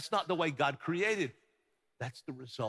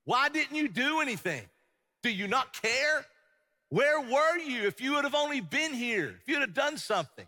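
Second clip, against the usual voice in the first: high, louder cry of reproach; anguished accusation; 9 semitones higher, 4 dB louder than usual. Acted. Martha confronting Jesus over her dead brother, anguished reproach. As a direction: plead upward, stretching the key words. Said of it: "Here's what she said".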